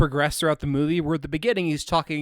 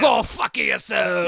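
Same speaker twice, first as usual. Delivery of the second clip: shouting; 7 semitones higher, 6 dB louder than usual. Pretend. Continuing French drunk bit.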